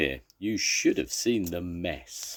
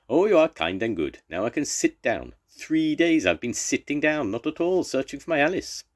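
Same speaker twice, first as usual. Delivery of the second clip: high, eager, grateful little man; Banny's voice; 8 semitones higher, 4 dB louder than usual. Acted. Banny thanks the kind men for Alice's boot, high and grateful. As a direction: gush thanks in a high bright voice.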